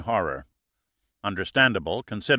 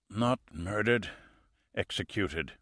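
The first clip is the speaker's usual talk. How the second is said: dying man's slow, faint voice, much softer; whispered; 6 dB quieter than usual. A narrator's reading. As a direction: breathe the words out slowly as he fades. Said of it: "he whispered".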